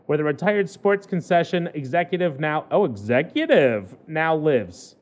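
measured newspaper read-aloud; lightly performed human-interest news read; news story read. Acted.

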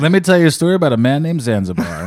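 Joe Biden impression. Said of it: "this sounds exactly like Joe Biden".

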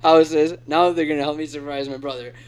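hint of a vlogger's sponsor read; David Dobrik. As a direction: lightly parody an upbeat YouTuber selling to the fans. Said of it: "exactly how David Dobrik would do it".

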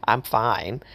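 a high whimper, then a brave little "I'm fine"; sad puppy dog. Retold or imitated. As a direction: play a wounded puppy pretending to be fine. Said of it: "he's like a little puppy dog".

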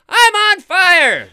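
high slow mock scream. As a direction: yell it out like you're burning. Man screaming on fire, retold.

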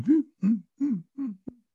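high little muffled hoots; short high noises, spaced out; imitated funny noises. Driver imitating noises from the back seat, high little sounds. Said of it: "I hear some funny noises".

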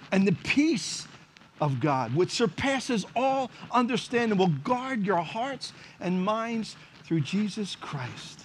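slow, deliberate reading of scripture; scripture recitation. Acted. Pastor reading scripture to the congregation, slow and solemn. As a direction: lay the verse out slowly, word by word.

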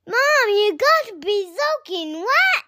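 high, drawn-out cub squeal; excited mock yell. A narrator's reading. Cub to his mom at surprise news, excited high mock yell. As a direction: yelp in disbelief like a little cub, without real volume. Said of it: "yelled Rex".

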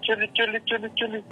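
high squeaky chule call; a silly squeaky put-on voice. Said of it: "tienes la voz culera".

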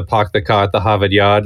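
light Boston accent, dropped r's. Shown as a demonstration. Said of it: "the Boston one is".

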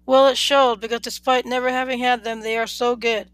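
talking through a mouthful of taco; words round a bite of food; mouth full. Acted. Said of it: "with a mouthful of the fish taco".

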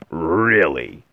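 loud, drawn-out mock surprise; sarcastically surprised; affected surprise. A narrator's reading. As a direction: feign astonishment, falling in pitch. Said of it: "in affected surprise".

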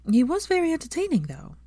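sly teasing jab, rising high then dropping away. Acted. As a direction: tease him with a sly sideways dig. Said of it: "said Hermione slyly".

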